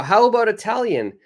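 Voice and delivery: teacher showing an eager suggestion; bright suggestion. Shown as a demonstration. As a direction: pitch it up like a cheerful offer.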